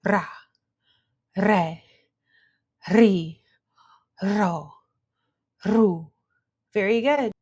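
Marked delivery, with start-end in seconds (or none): 0.1-6.1 "Ra, re, ri, ro, ru" trilled one at a time; "Ra, re, ri, ro, ru" separated, each with a tongue trill; rolled R drill. Shown as a demonstration. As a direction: roll each R, pausing between syllables. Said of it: "relaxing your tongue so it rolls".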